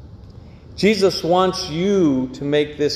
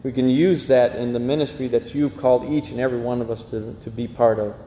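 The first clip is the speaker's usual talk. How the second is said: reverent pastor's prayer over the music; 2 semitones lower than usual. Acted. Closing prayer after the song.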